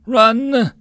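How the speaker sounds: a sharp high yell to run; urgent shout. Acted. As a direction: scream it out as bullets fly. Battlefield warning to flee.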